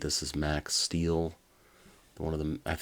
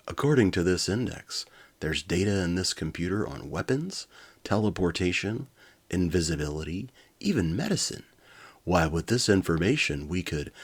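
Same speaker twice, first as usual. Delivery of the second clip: excited. Acted. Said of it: "he said excitedly".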